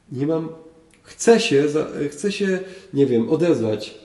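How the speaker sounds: a hint of a tongue-tied believer; hesitant self-excuse. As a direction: stammer it out like you can't get the words. Voicing a person without willpower.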